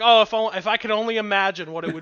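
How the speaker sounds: lightly hammed-up Rogan sigh of longing; half-hearted impression of a dreamy Rogan; Joe Rogan bit. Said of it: "He's like".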